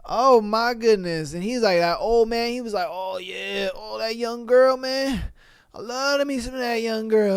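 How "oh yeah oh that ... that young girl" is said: a hint of a lecherous old man; leering old man. Guy reading a letter, mocking the old man who leers.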